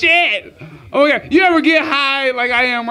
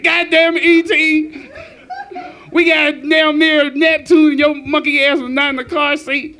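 a mock mama yelling from the doorway; scolding mama; 3 semitones higher than usual. E T's mother scolding him from the spaceship, mock yell. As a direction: chew him out like an angry mom. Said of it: "his mama was standing in the doorway, like".

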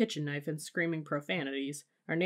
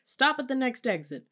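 high, loud, urgent order; shouted demand; 8 semitones higher, 5 dB louder than usual. A narrator's reading. Parent mid-fight in the car, shouted demand. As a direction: demand it at the top of an argument.

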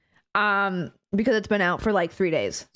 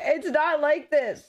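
mock squeaky version of herself; 3 semitones higher, slower than usual. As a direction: play the silly version chat imagines of you. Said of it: "I don't sound like this".

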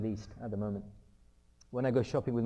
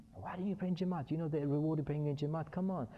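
acted parental reproach; 3 semitones higher than usual. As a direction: chide your son in mild disbelief. Father scolding son over prayer.

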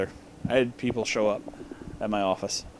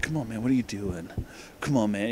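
low, soft broody imitation; Clay; 3 semitones lower, 8 dB quieter than usual. Reviewer mocking Clay's objection to the stripper, broody. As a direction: quietly mimic a broody guy's pleading. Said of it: "He's, like, broody".

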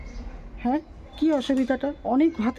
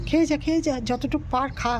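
higher coaxing urging; coaxing to eat; 4 semitones higher than usual. Real, not acted. Urging the stray to eat up, coaxing high. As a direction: sweet-talk the dog into eating.

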